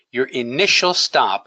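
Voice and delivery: "initial" picked out as the key word; stress on INITIAL. Real, not acted. Trader teaching where the first stop goes, emphasis on "initial". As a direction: lean lightly on "initial". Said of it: "I wanna emphasize the word initial".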